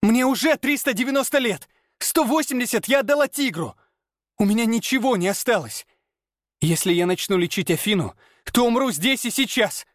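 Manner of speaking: high, desperate pleading woman; a young woman near tears, pitched high; Lana's voice breaking. A narrator's reading. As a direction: voice cracking in panic. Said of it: "Голос Ланы сорвался".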